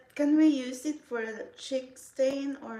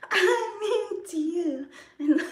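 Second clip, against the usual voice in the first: laughing; 7 semitones higher, 5 dB louder, slower than usual. Real, not acted. Laughing while speaking.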